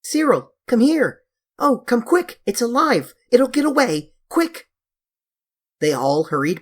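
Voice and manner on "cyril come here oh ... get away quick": put-on high excited screams calling the boys; screaming. A narrator's reading. Girl screaming to her brother to come quick, high and loud.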